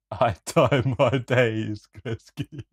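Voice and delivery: slow, clumsy attempt at Scottish; halting, hammed-up Scottish accent; bad Scottish accent. Shown as a demonstration. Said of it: "This is gonna be the worst Scottish accent".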